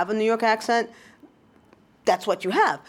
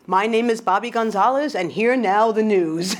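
news announcer voice. Pretend. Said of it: "I'm gonna say".

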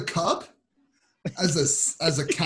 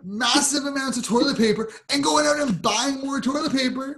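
exasperated argument; 6 semitones higher than usual. Real, not acted. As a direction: hammer each point home in exasperation. Ranting with a toilet analogy.

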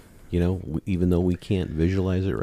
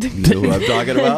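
excited; 9 dB louder, faster than usual. Real, not acted. Laughing excited question.

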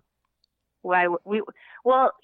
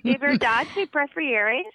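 Minnesotan Spanish; 6 semitones higher than usual. Shown as a demonstration. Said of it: "Minnesotan accent with the Spanish".

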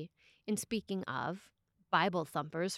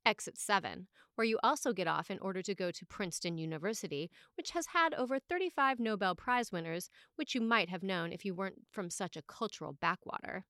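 smart aleck retort; faster than usual. Retold or imitated. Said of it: "the smart aleck usually says".

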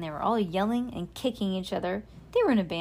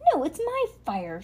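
high, mildly raised protest; shouted protest; 7 semitones higher than usual. A narrator's reading. Trevor guards his fire from Ruby, high protesting shout. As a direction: protest possessively, pitched high. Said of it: "Trevor shouted".

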